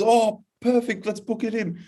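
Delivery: put-on high excited girlish voice; a thirteen-year-old girl gushing. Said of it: "And she goes".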